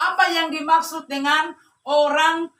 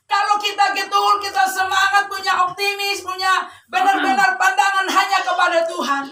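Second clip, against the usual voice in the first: raised, insistent preacher delivery; fervent preaching; 7 semitones higher, 6 dB louder than usual. Real, not acted. Preacher urging the congregation to love God, fervent preaching. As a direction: press each phrase home to the congregation.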